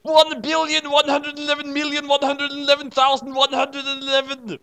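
hammed-up old wizard's scream. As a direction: yell it at the students. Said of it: "screamed Dumbledore wisely".

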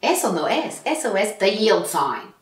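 put-on slow Spanish-accented teacher. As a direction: teach the road signs in accent. Replays her Spanish teacher character.

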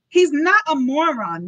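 loud, high protest; crying out. A narrator's reading. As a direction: leap to the child's defense. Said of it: "Nurse cried out".

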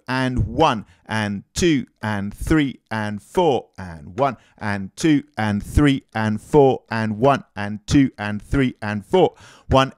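steady counted beat over drumming; counting the beat. Shown as a demonstration. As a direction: count it out evenly, in time. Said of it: "counting the rhythm while playing".

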